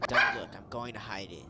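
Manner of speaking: lightly voiced bossy dog; loud opening order, then easing off; a hint of tough-dog character; game dog's voice. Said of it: "That's how he sounds".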